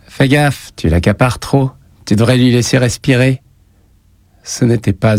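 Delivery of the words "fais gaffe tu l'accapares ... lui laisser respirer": higher-pitched, mock-casual warning; falsely light. A narrator's reading. Bully warns a girl before leaving recess, falsely light. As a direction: keep it airy, with a hint of warning underneath. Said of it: "faussement léger".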